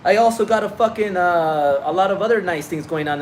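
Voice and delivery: mock-tough reply to the critics; defiant retort. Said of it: "And I'm like".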